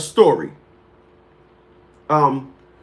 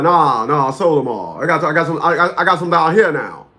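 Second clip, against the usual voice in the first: lightly imitated uncle; a hint of the uncle's mumbled talk; Uncle Al impression; 3 semitones lower than usual. Uncle tells his nephew about selling houses, lightly imitated. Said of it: "my uncle talked like this".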